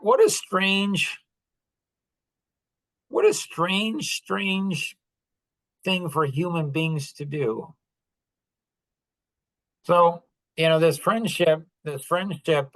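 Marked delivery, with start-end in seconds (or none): 0.0-7.7 amazed wonder. Real, not acted. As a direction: stretch out what a strange in disbelief. Marvels at dog comparison.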